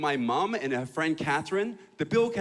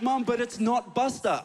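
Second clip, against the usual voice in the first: higher-pitched objection; protesting son; 7 semitones higher than usual. Acted. Son arguing with mom about a replacement dog, high protest. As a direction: plead the dog's case, pitched up.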